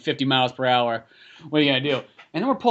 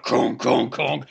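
imitated conks; 3 semitones lower, much slower than usual. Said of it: "would just be literally like".

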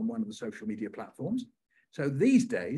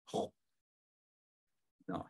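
put-on reading aloud to a crowd of kids; poem performance; 5 semitones higher than usual. Shown as a demonstration. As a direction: perform the brother's turn in the poem. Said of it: "can you say nice".

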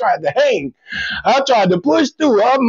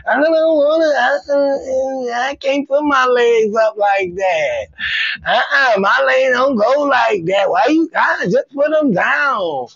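whiny partner; 2 semitones higher, slower than usual. Retold or imitated. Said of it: "If they don't wanna do shit".

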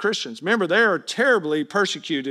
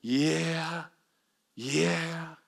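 soft, flat-toned indifferent yeah, far quieter; bored yeah; 4 semitones lower, 9 dB quieter, much slower than usual. Retold or imitated. Friend humoring an excited believer, mock unimpressed mumble. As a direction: mumble it like you're not listening. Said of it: "And they're going".

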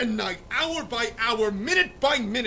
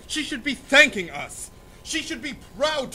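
angry outburst; 4 semitones higher than usual. Acted. Father scolding his refusing daughter, angrily. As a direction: throw the words at her in anger.

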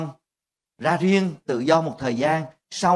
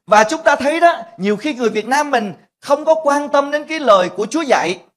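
preaching; 9 semitones higher, 4 dB louder than usual. Acted. Preaching point to congregation.

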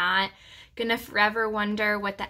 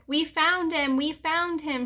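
high-pitched happy announcement; excited squeal; 7 semitones higher than usual. A narrator's reading. Little sister races into the yard, squealing. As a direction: squeal the good news out. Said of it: "she squealed".

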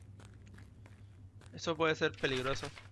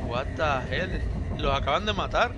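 sorpresa real; 5 dB louder than usual. Real, not acted. Sorpresa ante la matanza.

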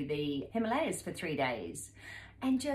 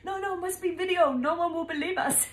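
high, louder, fast pleading for video; excited insistence; 9 semitones higher, 5 dB louder than usual. Retold or imitated. Young men insisting on video proof, high fast excited voice. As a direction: insist eagerly, like thrilled fans. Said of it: "And then we're having photo".

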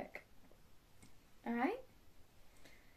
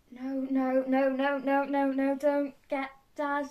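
rapid-fire nos, rising in urgency; head off mum before she escalates; panicked pleading; 3 semitones higher, 5 dB louder than usual. Acted. Villain stopping mum fetching Dad, panicked.

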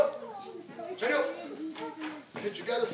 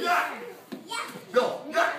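louder, punchy shout; repeated kick yell; 4 semitones higher, 3 dB louder than usual. Shown as a demonstration. Coach drilling the yell with student, punchy shout. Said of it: "you gotta yell, yell".

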